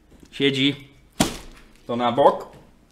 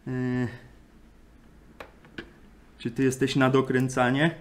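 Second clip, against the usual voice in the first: ordinary delivery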